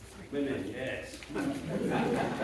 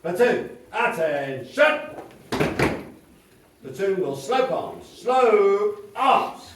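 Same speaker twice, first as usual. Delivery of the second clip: drawn out parade commands; 7 dB louder, slower than usual. Acted. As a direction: stretch each drill command long. Drill commands.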